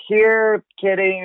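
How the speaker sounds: high sing-song here kitty; coaxing kitty call. Retold or imitated. Calling a cat trapped inside the sofa, high coaxing. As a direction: coax the cat like a pet owner.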